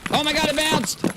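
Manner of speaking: high startled cry; surprised. Real, not acted. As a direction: yelp in real surprise. Grenade bounces back.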